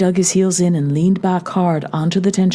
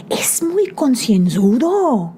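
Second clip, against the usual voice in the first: shout; 7 semitones higher, slower than usual. A narrator's reading. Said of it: "Anselmo shouted".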